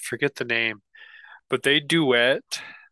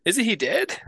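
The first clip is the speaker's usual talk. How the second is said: confused listener voice. Retold or imitated. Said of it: "they would be like".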